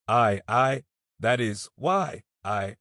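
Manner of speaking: halting panicky stammer; flustered stammer. Acted. Youth stammers, caught off guard.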